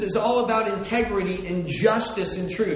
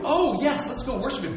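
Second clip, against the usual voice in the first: tag; 5 semitones higher than usual. Acted. Mock eager reply as Herod.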